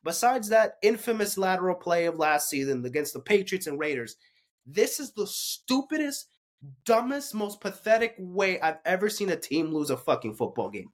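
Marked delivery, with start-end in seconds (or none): 4.7-10.9 heated rant. Real, not acted. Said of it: "I got a little heated there".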